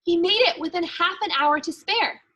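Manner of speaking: lively picture-book read-aloud for a class; reading aloud to kids. A narrator's reading. Teacher reading a Christmas book to her class, lively storytelling. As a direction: bring the elf's diary to life for the students.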